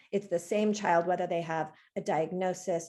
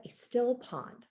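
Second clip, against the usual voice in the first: reciting a koan; 2 semitones higher, 5 dB quieter than usual. Shown as a demonstration. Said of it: "And it said".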